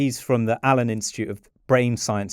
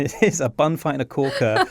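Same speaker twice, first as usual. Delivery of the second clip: laughing through the words; 2 semitones higher than usual. Real, not acted. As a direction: chuckle while saying it. Banter over the idiom.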